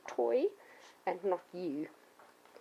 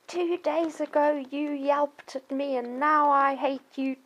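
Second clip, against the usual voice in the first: mock grudging dog; 5 semitones higher, 5 dB louder, slower than usual. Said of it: "he doesn't go around going".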